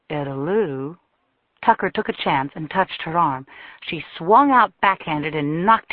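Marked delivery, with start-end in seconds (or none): 0.1-1.0 low and calm. A narrator's reading. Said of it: "kept his voice low and calm".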